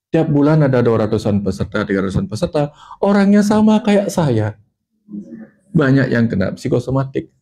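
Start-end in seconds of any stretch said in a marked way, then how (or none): 3.0-4.5 high, drawn-out slow reveal; amazed revelation. Retold or imitated. Speaker finds hundreds of participants just like him, amazed. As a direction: stretch it out high, marvelling.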